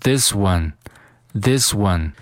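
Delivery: "this one" joined without a gap; "this one" as a single word; linked "this one". Shown as a demonstration. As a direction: run the s of "this" into "one". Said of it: "进行连读".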